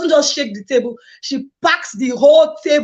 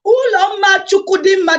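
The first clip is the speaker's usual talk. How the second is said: name said higher and louder, proudly; full chest; 5 semitones higher, 4 dB louder than usual. Shown as a demonstration. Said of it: "say it with your full chest".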